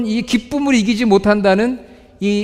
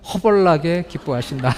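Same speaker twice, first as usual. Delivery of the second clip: Jeolla dialect. Retold or imitated. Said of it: "사투리를 많이 써요".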